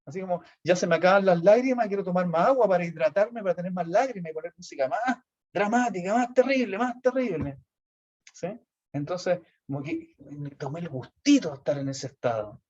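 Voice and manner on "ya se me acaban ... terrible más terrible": higher, relishing mock misery; hammed-up melodramatic wallow; self-indulgent drama. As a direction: savour the wallowing. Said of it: "para seguir sufriendo".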